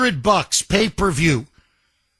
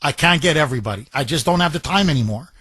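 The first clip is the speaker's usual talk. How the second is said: imagined official; 2 semitones lower, faster than usual. Pretend. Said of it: "and he says".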